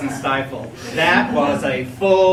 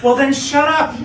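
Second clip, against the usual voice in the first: laughing snap; 8 semitones higher, 7 dB louder than usual. Real, not acted. Exasperated friend snaps back.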